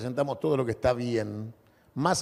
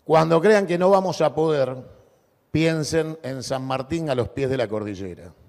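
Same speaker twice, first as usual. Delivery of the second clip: booming balcony speech. Real, not acted. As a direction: build toward the final cheer. Climactic rallying close of speech. (discurso de balcón atronador)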